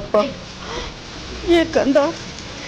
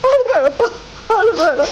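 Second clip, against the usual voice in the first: tearful pleading; 2 semitones higher than usual. Acted. Mother begs son not to cry.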